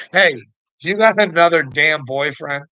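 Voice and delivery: usual speaking voice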